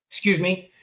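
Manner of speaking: hiccuping between words; interrupted by hiccups. Real, not acted. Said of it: "I got the hiccups".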